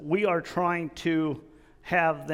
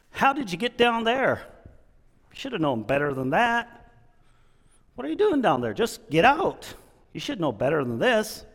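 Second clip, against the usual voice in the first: scolding bear; 4 semitones higher than usual. Retold or imitated. First bear scolding the stuck one.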